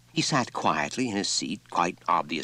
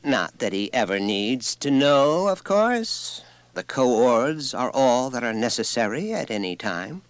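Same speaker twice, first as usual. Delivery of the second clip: quiet pride; 6 semitones higher, 4 dB louder than usual. A narrator's reading. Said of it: "with the quiet pride of one who knows what is her due".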